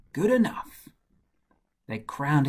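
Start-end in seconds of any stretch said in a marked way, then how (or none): 0.1-0.9 high-pitched, approving cheer; cheering crowd. A narrator's reading. The people accept Saul as their king, high cheer. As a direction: call it out high, as a pleased crowd. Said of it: "the people sang".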